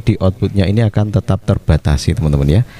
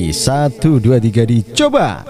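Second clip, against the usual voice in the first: long echo; 3 semitones higher than usual. Shown as a demonstration. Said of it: "Panjang sekali pantulan echo-nya".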